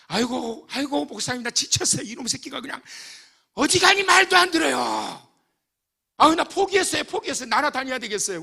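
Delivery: high, loud, whiny complaint; exasperated mother. Retold or imitated. Worn-out church mother wailing to the pastor about her son. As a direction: wail about a son who won't listen.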